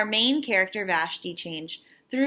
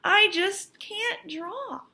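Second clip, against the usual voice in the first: higher, slow, a hint of a glum little girl; discouraged girl; 10 semitones higher, slower than usual. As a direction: let her sound defeated before she starts. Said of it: "said Vashti".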